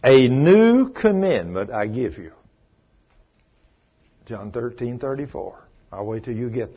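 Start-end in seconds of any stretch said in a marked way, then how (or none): 0.0-2.3 slow, low, stretched-out proclamation; solemn scripture reading. Acted. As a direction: proclaim the verse slowly. Reads scripture aloud.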